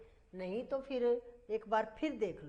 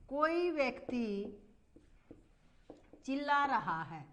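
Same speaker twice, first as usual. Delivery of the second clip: धीरे धीरे लिखवाते हुए; हर शब्द अलग करके धीमे बोलो; slow dictation. Shown as a demonstration. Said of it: "ये पूछा गया है ऐसे कि ऐसे वाक्य". (बच्चों को वाक्य लिखवाती शिक्षिका, धीमी आवाज़ में)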